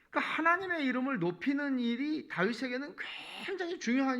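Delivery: loud, high-pitched sermon delivery; impassioned preaching. Acted. Preacher telling how David prayed even in hardship, impassioned preaching.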